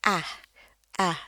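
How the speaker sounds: ah dengan bibir senyum lebar dan rahang turun. Shown as a demonstration. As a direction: ucapkan ah sambil senyum lebar. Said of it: "ini bunyinya ah". (bunyi ah senyum)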